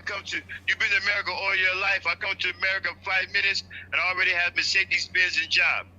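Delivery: lightly imitated Nigerian brag; mock Nigerian boaster. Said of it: "those are Nigerians".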